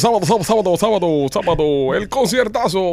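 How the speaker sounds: high hyped radio promo; monster truck ad. Acted. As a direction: shout it like a weekend concert spot. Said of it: "Son pesados los promos de radio".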